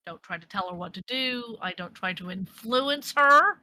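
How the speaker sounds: mild bite, building slightly at the end; a bit of bite. Acted. Protective voice in Rags's head warns Salwa, with a bit of bite. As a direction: gently scold like a mom protecting her child. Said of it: "kind of bite in the town".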